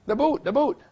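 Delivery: imitating English Dave. Dave insisting to confused American.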